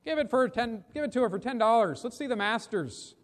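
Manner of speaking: high-pitched call from the crowd; impatient heckle. Acted. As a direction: push the auctioneer to move on. Impatient bidders calling out at auction.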